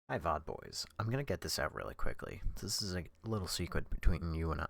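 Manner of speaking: sweet princess voice, lightly done; cartoon princess. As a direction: talk like a dainty princess. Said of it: "I'm talking like I'm a homo princess".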